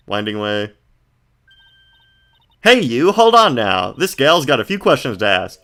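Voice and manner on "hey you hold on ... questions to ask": loud, high Southern gal holler; southern accent. Acted. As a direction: call out in a bold southern twang. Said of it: "Sure have heard that southern accent".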